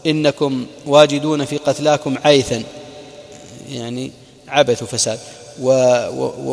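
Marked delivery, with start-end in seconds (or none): 0.1-2.6 raised voice. Retold or imitated. Abu Sufyan taunting the Muslims below, slow raised voice. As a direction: voice lifted in a slow, deliberate taunt. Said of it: "ورفع صوته".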